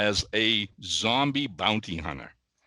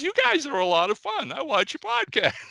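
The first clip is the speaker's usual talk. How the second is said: higher sweet Southern lady voice, lightly imitated; charming Kentucky accent; 13 semitones higher than usual. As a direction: play the friendly fan from Pikeville. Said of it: "in that charming little accent".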